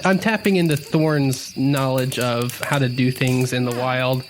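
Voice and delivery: usual speaking voice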